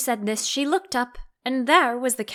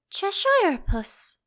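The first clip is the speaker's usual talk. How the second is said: put-on high, slow, hesitant girl's voice; timid Alice; 9 semitones higher, slower than usual. A narrator's reading. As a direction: ask it shyly and slowly, like a little girl. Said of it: "she began rather timidly".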